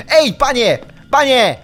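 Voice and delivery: głośno przywołuje z daleka; zawołaj go zaczepnie; wołanie. Real, not acted. Wabi potwora, wołając go. (gracz głośno woła potwora, żeby go odciągnąć)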